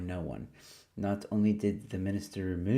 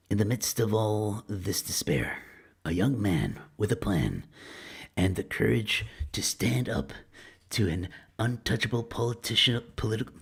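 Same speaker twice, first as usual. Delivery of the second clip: movie trailer voice. Pretend. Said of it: "Movie voice time".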